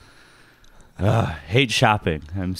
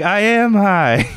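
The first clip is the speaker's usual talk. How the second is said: slow, raised, louder deadpan admission; deadpan confession; 9 semitones higher, 4 dB louder, slower than usual. Retold or imitated. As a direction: drag it out like a stoned confession. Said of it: "And I'm like".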